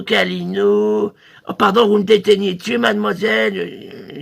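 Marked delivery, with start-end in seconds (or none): 0.0-1.1 much lower, slow câlinou with a rise; deep cuddly voice. Shown as a demonstration. Salesman voices the husband's câlinou, low and slow. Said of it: "vous faites câlinou".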